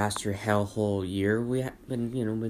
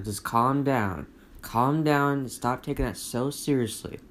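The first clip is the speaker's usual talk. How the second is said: slow, even calm-down voice; calm soothing advice; 3 semitones higher, 3 dB louder, slower than usual. Retold or imitated. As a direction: talk them down slowly and gently. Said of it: "I'm like, I just say".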